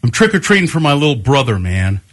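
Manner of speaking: quick line with a dropped-off ending; imitated attitude. Older trick-or-treater excusing himself to homeowner, imitated attitude. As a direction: imitate a defensive young guy, rattled off fast. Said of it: "like, this attitude".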